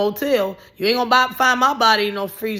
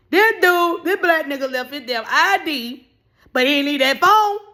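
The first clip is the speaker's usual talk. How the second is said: high, loud exasperated storytelling; outraged rant; 6 semitones higher, 3 dB louder than usual. Real, not acted. Telling the Social Security office story, high loud outrage. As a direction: build up the outrage.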